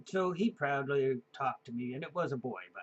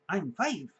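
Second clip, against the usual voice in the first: lightly voiced proud kid; a hint of a five-year-old; proud child; 4 semitones higher, 5 dB louder than usual. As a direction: repeat it like the child did. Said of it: "proudly announced".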